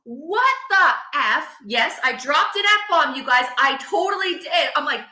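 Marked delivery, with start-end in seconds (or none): 0.0-1.6 slow exasperated outburst. Retold or imitated. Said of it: "I effing lost it".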